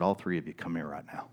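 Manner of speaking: low and firm, every word final; quiet command. Retold or imitated. Pastor summoning three workers, quiet command. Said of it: "with a straight face and a calm voice".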